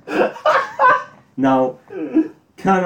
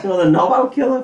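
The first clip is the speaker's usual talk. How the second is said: shocked echo; 10 semitones higher, 4 dB louder than usual. Real, not acted.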